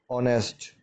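ऑनेस्ट starts on the vowel, no h; ऑनेस्ट with the h left silent. Shown as a demonstration. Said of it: "एच को नहीं पढ़ेंगे". (ऑनेस्ट में एच silent, "ऑनेस्ट")

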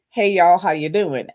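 easy, relaxed Louisiana hello; laid-back Southern "Hey, y'all"; calm Southern greeting. Retold or imitated. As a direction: greet the room calm and collected. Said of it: "It's, like, real calm, collected".

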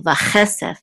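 "vachesef" with the middle "che" accented; stress on CHE. Shown as a demonstration. Teacher repeating the word for a student, "che" in "vachesef" stressed. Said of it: "So the accent is on this syllable".

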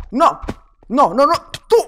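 ordinary talk, nothing marked

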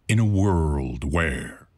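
low, slow movie-trailer announcer; deep dramatic movie trailer read; Don LaFontaine trailer voice. Retold or imitated. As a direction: drop into the epic trailer voice, slowly. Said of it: "the dude going".

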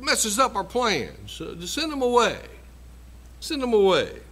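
hammed-up mimic of folks too busy to care; mocking indifference. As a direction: wave the needy off like a nuisance. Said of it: "that's the attitude of some folks".

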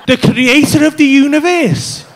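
loud, slow, weighty announcement; grand proclamation. Retold or imitated. Comedian as his friend passing on a cosmic order, grand proclamation. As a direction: proclaim it like a divine summons.

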